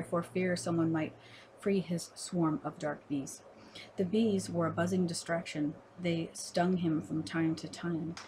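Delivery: measured poem recital with pauses between phrases; poetry reading. Acted. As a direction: read it as verse, line by line.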